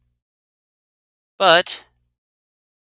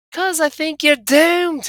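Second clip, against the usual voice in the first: higher, slow and grave; ominous companion voice; 7 dB louder, slower than usual. Acted. Anna warning the player he is doomed, slow and grave. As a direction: pronounce his doom slowly.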